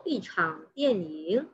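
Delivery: "yi" with a falling fourth tone before "chang". Shown as a demonstration. Teacher modelling a Mandarin phrase for students, falling-tone "yi". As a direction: slowly model "yi" falling, then "chang" dipping. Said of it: "i di sini sudah dibaca intonasi keempat".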